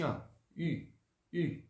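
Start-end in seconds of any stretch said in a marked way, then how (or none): 1.3-1.6 U as an I said through pouted lips; pouted French U. Shown as a demonstration. Teacher demonstrating the U for pupils, pouted sound. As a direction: say U as "ee" with rounded lips. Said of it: "eu vou fazer um biquinho".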